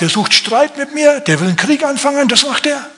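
high, rattled king crying war; a king who thinks he's being provoked into war; panicked king. Acted. King voiced, tearing his clothes.

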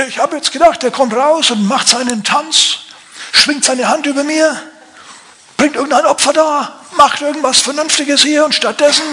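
hammed-up outraged shouting; ranting general. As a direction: rant like an insulted general in the street. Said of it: "schreit der rum".

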